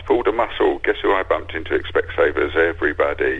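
punchy stand-up one-liners, one after another; quick-fire one-liners. Shown as a demonstration. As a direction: reel off the gags like a comedy act. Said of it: "as quickly as possible".

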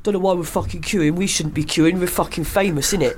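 Paul's gripe. Retold or imitated. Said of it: "he just turned around to me and went".

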